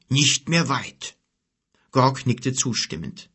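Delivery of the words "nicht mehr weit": langsam brummender Bär. A narrator's reading. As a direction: gedehnt und brummig wiederholen. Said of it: "brummte Kelim". (langsames Bärenbrummen)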